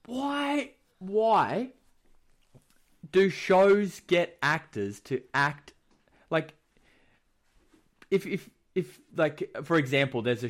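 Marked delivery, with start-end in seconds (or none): 0.0-5.7 high-pitched mock despair; exasperated why. Asking why shows cast the wrong actors, high exasperation. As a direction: stretch it high, in hammed-up disbelief. Exasperated at bad casting choices.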